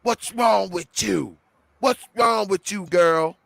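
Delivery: mock yelled scolding, slow; mother scolding a toddler, mock yelled; imitating yelling mom. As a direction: bark at the toddler the way the mom did. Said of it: "She starts yelling at the baby".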